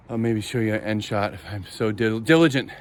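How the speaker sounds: panting slightly between words; winded from walking the garden; out of breath. Real, not acted. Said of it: "sorry, I'm out of breath".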